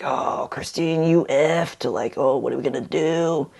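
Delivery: mock despairing self-talk. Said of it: "there are certain ways you can talk to yourself".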